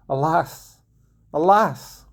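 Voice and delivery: wailing alas. Acted. Grieving mother crying out over her doomed sons.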